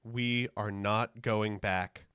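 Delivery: slow, deliberate speech cadence; a light Kamala Harris impression, very slow; lightly done political rally line, slowed right down. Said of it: "That's my Kamala Harris voice".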